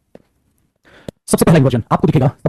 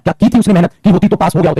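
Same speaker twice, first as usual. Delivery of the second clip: mildly emphatic mock reproach; demonstrated anger. Shown as a demonstration. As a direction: throw it out as a lightly angry rhetorical question. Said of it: "जब और ज्यादा गुस्सा आपको दिखाना हो". (हल्के दिखावटी गुस्से में, ज़ोर देकर)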